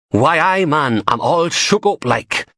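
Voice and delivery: hammed-up Geordie accent singing like a famous singer. A narrator's reading. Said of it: "a singer with a Geordie accent".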